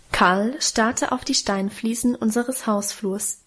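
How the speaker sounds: ordinary delivery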